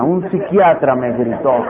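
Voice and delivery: low mock brooding over a grievance; acted low, resentful repeating; brooding repetition. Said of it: "Me voy a repetir eso el resto de la semana".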